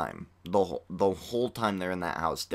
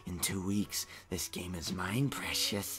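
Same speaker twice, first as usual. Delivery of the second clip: Golem voice; 6 dB quieter than usual. Retold or imitated. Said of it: "my Golem impression".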